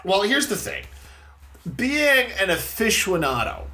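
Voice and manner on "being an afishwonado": AFICIONADO said "fish-WON-ah-do". Real, not acted. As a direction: put a W glide into aficionado, fish-wo-nado. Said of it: "There's no U".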